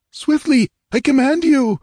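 high, loud commanding order, stress on you; imperious command. Acted. Dying king commands his sister, imperious and loud. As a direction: order her with royal authority. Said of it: "the old imperious tone in his failing whisper".

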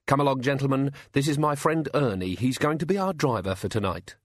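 a touch of courteous host, introducing the driver; Tea Time, polite. Acted. Tea Time voiced in story.

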